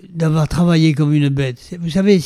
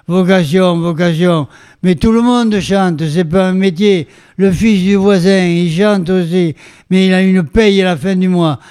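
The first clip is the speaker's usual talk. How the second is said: put-on higher-pitched, grumbling father with a Béarnais accent; Béarnais father's accent; 4 semitones higher than usual. Son quoting his father scoffing at singing as a job, Béarnais accent. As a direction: imitate a sceptical Béarnais father. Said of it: "mon père avec son bel accent bernin".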